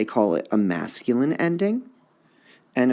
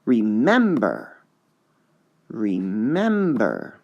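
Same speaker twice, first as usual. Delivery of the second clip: remember slowed, MEM held; trying stress on remember; slower than usual. Shown as a demonstration. Teacher testing stress on remember. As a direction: stretch remember to find the beat. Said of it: "all sorts of tricky".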